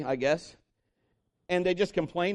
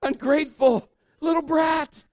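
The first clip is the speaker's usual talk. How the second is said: high, loud, drawn-out scolding; slow, strained comic outburst; exasperated parent; 12 semitones higher, 8 dB louder, slower than usual. Retold or imitated. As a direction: let rip in mock parental fury. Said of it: "You wanna go".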